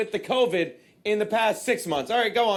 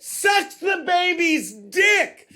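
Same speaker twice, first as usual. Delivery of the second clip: disgusted shout; 6 semitones higher, much slower than usual. Real, not acted. Outraged reading of the article.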